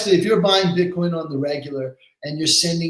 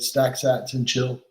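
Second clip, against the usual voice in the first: each word spaced out slowly; "Stack sats and chill" said slowly, word by word; slow quoted motto; 3 semitones lower, slower than usual. Retold or imitated. Quoting the motto back to host, slow and deliberate. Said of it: "You said".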